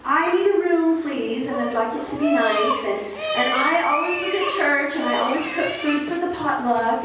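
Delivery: prim, entitled belle asking for a room; a hint of a snooty Southern belle demanding the best; snobby Southern belle. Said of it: "dressed like a Southern belle".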